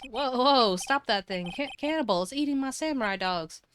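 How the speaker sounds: alarmed. Acted. Dog eating hot dogs.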